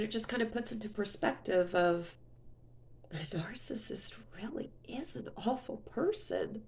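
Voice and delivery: very soft, near-whispered; hushed realization. Real, not acted. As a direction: let it drop almost to a whisper as it sinks in. Sombre conclusion about the ex.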